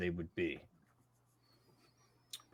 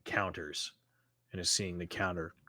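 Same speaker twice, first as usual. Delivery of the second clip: game master narration; 4 semitones lower than usual. Acted. Game master sets the scene.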